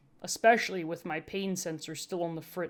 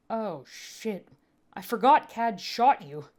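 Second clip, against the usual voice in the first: growled; 4 semitones higher, 4 dB louder, slower than usual. A narrator's reading. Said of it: "they growled".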